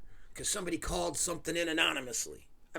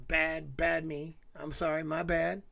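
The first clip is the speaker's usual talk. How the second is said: mock self-scolding; slower than usual. Real, not acted. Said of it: "I'm sorry I got off topic".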